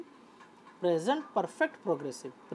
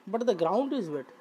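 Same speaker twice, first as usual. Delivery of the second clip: slow model reading; much slower than usual. Shown as a demonstration. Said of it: "teacher rereads example".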